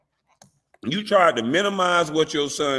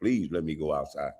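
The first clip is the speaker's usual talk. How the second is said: mock pleading; 6 semitones lower than usual. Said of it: "retold plea to judge".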